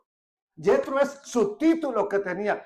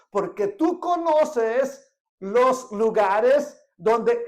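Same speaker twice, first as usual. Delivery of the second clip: pleading scripture reading; 3 dB louder, much slower than usual. Acted. Moses pleads with Jobab, scripture.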